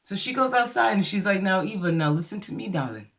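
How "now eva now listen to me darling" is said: put-on a touch of old Southern movie accent; Southern belle accent. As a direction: coax gently like a Southern belle. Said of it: "sounded like she was in the fried green tomatoes".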